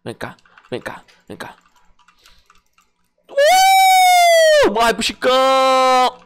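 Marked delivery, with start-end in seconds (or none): 3.3-4.7 very high loud battle yell; battle shout. Acted. Battle cry before attack. 4.7-6.2 slow drawn-out villain taunt; hammy battle taunt. Acted.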